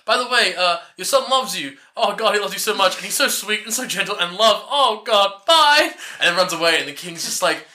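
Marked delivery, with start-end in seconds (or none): 0.1-5.9 gushing princess. Retold or imitated. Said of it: "And she's like".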